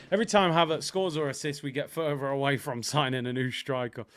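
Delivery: brisk, unbroken read-back; reading back a tweet. Real, not acted. Streamer reads his finished tweet to viewers, brisk delivery. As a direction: run straight through the sentence without pauses.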